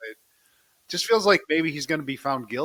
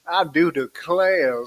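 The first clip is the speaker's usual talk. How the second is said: put-on southern accent; 3 semitones higher, 6 dB louder, slower than usual. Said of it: "a little bit of that southern accent".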